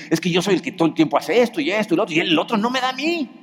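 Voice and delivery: mock the aggrieved partner's grievance; complaining. Counselee griping to the pastor about a partner, fast and whiny.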